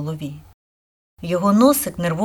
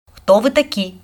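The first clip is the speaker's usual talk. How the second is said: higher, mildly threatening question; menacing demand; 3 semitones higher, 4 dB louder than usual. A narrator's reading. Forest spirit questions the intruding sisters, menacing. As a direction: demand it sternly, as an offended spirit. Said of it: "грізно запитав дух".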